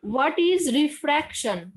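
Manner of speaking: repeated slowly and clearly; slow down so she can hear. Real, not acted. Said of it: "Ma'am, tell again, I can't hear".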